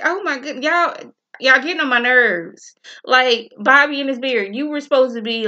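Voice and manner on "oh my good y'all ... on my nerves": exasperated. Retold or imitated. Fed up with the characters.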